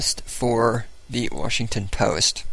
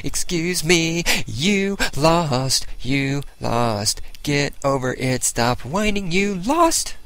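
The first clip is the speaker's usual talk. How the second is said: mocking; 4 semitones higher, slower than usual. Mocking defeated Democrats.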